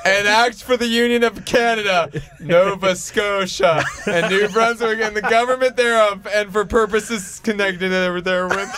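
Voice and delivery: robotic reading. Real, not acted. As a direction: read it like a machine. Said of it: "You sound vaguely robotic".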